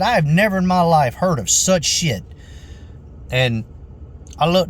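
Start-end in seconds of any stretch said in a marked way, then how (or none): 0.0-2.2 higher-pitched imitation of a fuming customer; mock outrage. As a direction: mimic her indignant cursing, mildly hammed-up.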